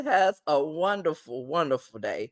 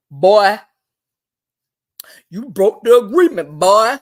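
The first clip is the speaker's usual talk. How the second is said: menacing threat; 3 semitones higher, 8 dB louder than usual. Retold or imitated. Jonah threatening LC, retold.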